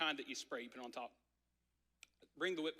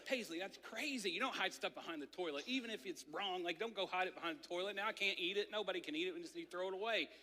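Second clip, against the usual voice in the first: higher, heated telling-off of a daughter; half-mock exasperated scolding; scolding dad; 4 semitones higher, faster than usual. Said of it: "and immediately I go".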